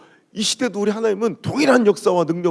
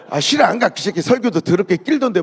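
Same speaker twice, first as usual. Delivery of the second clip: loud, blunt Gyeongsang 싫어, 안 가; Gyeongsang-style flat refusal, loud and blunt; 2 semitones higher, 4 dB louder than usual. Retold or imitated. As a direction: snap it out like a frank Gyeongsang churchgoer. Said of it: "부정적인 얘기를".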